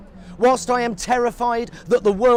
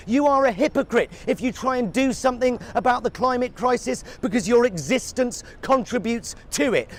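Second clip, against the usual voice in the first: usual speaking voice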